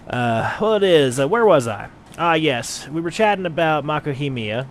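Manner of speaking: lightly voiced brawny gladiator, hearty; a hint of a bluff British fighter greeting a newcomer; Rodgar the gladiator. Player voices gladiator Rodgar to the adventurer, lightly put on.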